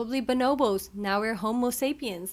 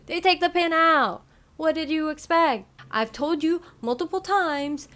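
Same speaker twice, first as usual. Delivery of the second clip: exasperated; 7 semitones higher, 5 dB louder than usual. Real, not acted. Exasperated at ignored warnings.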